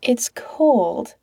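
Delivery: breathy whisper. Acted. Pete missing Patrick on the phone, whispering. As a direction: whisper it to yourself.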